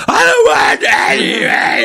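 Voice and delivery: high, slurred yell; belligerent drunk. Retold or imitated. Acting jumper yelling.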